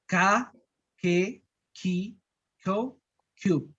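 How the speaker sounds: K, Ki, Ko, Q said softly, almost like a plain k; soft k variant. Shown as a demonstration. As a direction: ease off, light and soft. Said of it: "se pronuncia tan suave". (k suave)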